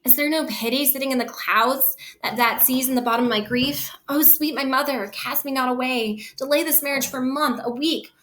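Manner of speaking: mildly imploring Juliet, pitched a little up; gently acted Shakespearean plea; pleading. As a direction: read it as a daughter's plea to her mother. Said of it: "asking and pleading her mother".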